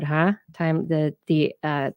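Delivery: normal talking voice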